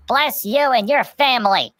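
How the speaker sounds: a hint of warm old Italian bakers; grateful bakers. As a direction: bless them like doting grandmothers. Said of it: "And they're like".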